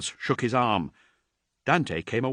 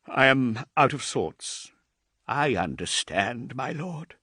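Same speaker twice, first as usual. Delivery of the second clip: a hint of a higher, deferential servant; lightly voiced old thrall; 5 semitones higher, 3 dB louder than usual. Aged thrall reassuring Dante, lightly voiced and deferential. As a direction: answer your lord with humble care.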